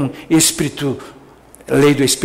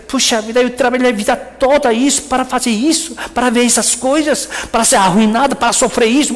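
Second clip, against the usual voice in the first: frustrated inner complaint; 5 semitones higher, faster than usual. Retold or imitated. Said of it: "Você pensa assim".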